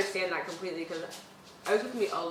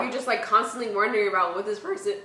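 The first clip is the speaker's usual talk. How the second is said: voice cracking. Real, not acted. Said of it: "excuse me, voice".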